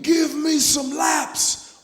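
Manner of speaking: slow, drawn-out coach shout; retold coach yell. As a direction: bark the order like a coach. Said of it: "And he would scream".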